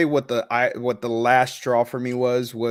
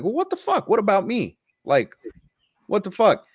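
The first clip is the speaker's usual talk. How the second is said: much higher, loud mock outrage; indignant outburst; 9 semitones higher, 3 dB louder than usual. Son jealous his sister got signs from dad, high indignant outburst. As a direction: squeal it like you've been cheated.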